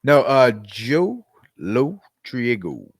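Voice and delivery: Joe Lo Triego sounded out slowly; tentative try at an Italian name; slow name attempt. Shown as a demonstration. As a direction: carefully drag out "Joe Lo Triego". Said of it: "There you go".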